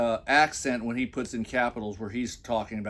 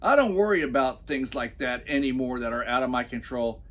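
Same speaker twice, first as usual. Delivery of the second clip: usual speaking voice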